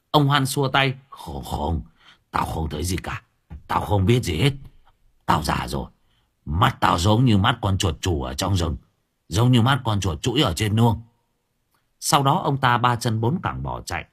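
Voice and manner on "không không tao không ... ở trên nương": low, evasive refusal; fearful old man. Acted. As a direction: wave it all away, scared. (ông già trầm giọng chối quanh)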